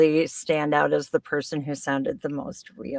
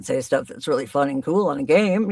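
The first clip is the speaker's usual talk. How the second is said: demonstrating a lower voice; dropped low register; 3 semitones lower than usual. Shown as a demonstration. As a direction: drop down into your lower register. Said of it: "you can go down here".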